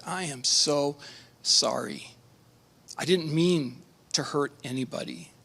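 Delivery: subdued, halting apology, mildly sorrowful; understated remorse, pausing before the hard word; retold tearful apology. Weeping young man apologizes to the victim's father, retold tearful apology. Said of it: "He was weeping".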